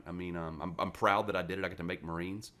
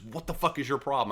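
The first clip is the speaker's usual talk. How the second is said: mock gunnery sergeant yell; 7 semitones higher, 5 dB louder than usual. Retelling how the gunny screamed at him, mock yell.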